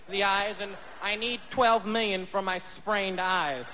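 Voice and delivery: slow, put-on victim voice; milk a fake injury slowly; slow fake claimant.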